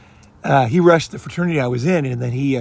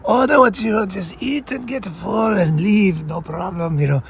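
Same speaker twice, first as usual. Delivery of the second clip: put-on higher, lightly Italian-accented generous father; friend's rich father offering free meals, light Italian accent; Italian Godfather accent; 5 semitones higher than usual. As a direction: play the Italian Godfather welcoming his son's friend. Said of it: "I'm doing, like, an Italian thing".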